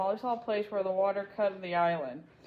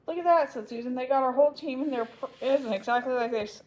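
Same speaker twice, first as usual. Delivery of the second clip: excited; 4 semitones higher, 3 dB louder than usual. Acted.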